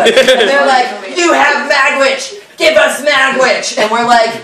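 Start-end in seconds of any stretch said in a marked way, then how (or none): 1.2-3.8 high, slow mock demand. Pursuers demanding Magwitch from the rowers, mock demand. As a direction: draw out the demand in a raised voice.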